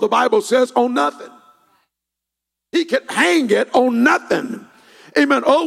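loud, driving pulpit delivery with punched words; fervent revival preacher in full cry; full-force preaching. Real, not acted. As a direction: preach it hard, building to a ringing declaration.

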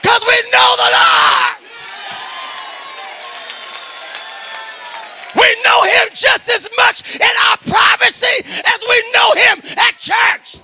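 full-voiced preaching, rising with fervour; fervent church sermon delivery. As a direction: preach it out to the congregation. Preacher exhorting the congregation.

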